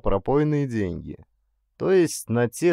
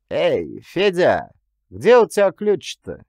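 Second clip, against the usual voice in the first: higher, louder call across the dark; 6 semitones higher, 6 dB louder than usual. A narrator's reading. Clerk calls the sleepy jailer, loud call. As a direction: shout for Федя to bring the key.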